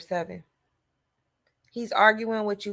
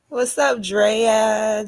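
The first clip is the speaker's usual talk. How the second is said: calling out; 2 semitones higher, 6 dB louder, much slower than usual. Real, not acted. Calling out to a viewer.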